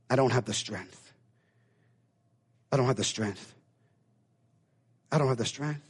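low, soft, defeated repetition; despair. Acted. Cain answering God, low and hopeless. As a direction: say it like you've given up. Despairing reply, repeated three times.

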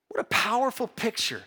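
ordinary talk, nothing marked

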